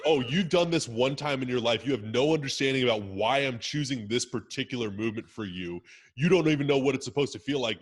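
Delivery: indignant telling-off of an imagined copycat; exasperated mock scolding. Coach to someone copying his exercise, exasperated scolding. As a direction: lay into them in disbelief.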